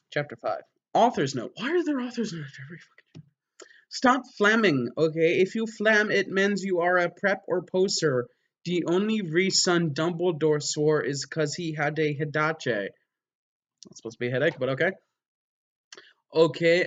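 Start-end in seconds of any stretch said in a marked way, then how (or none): 3.9-12.9 whiny author. Acted. Reading author's note.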